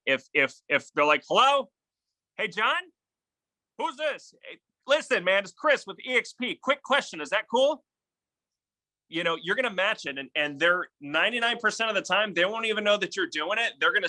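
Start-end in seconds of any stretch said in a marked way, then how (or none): 1.3-7.8 much higher, bright upbeat phone voice; matching upbeat tone. Shown as a demonstration. Agent mirroring an upbeat prospect with a high, lively greeting. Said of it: "you're gonna match their tone".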